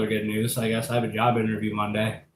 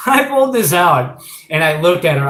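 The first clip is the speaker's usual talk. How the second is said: laughing; 5 semitones higher, 7 dB louder than usual. Real, not acted. Laughing while showing the tarantula.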